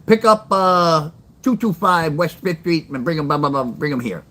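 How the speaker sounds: mock dispatcher on the radio. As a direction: call the pickup like a busy dispatcher. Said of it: "He says".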